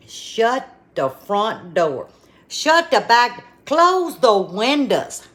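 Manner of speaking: drawn-out, then rising with delight; excited exclamation. Real, not acted. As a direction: rave about the flavor. Raving over the taste.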